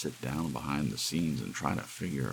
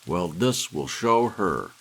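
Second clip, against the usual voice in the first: slow, louder bitter vow; bitter threat; 4 semitones higher, 8 dB louder, slower than usual. Acted. Jealous husband vowing revenge over his runaway wife, slow and bitter. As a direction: spit it out, grimly resolved.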